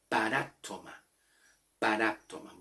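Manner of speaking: "paráptoma" with the accent on the A; stress on A. Shown as a demonstration. Teacher shows where the Greek word's accent falls, stressing A. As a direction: stress the A in "paráptoma", falling after. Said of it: "el acento está en la A".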